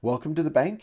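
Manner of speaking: warm welcome. A narrator's reading. Bank avatar greeting a new arrival, warmly. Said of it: "he said warmly".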